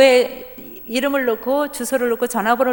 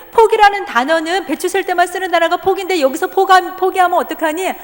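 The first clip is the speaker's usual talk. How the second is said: loud, higher firm urging; insistent mother; 6 semitones higher, 6 dB louder than usual. Retold or imitated. Mother firmly urging her crying son to keep going. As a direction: push him hard not to give up.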